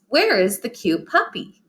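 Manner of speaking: "puppy" lifted high at the end, as a question; questioning rise. Shown as a demonstration. Teacher showing how a question sounds, questioning rise on "puppy". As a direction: ask it, voice climbing on "puppy". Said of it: "hear how my voice went up at the end".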